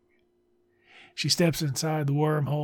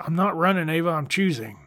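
a hint of mockery, a bit higher; mocking quote; 3 semitones higher than usual. Reviewer mocks the cheesy line with light scorn. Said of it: "Nobody talks like this".

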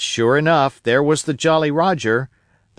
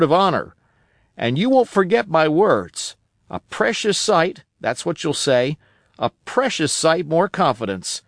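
put-on a higher, eager old sailor voice; old castaway Ben Gunn; 4 semitones higher than usual. Old castaway telling Jim about Flint, eager and higher. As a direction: spin the tale of Flint like a wild old castaway.

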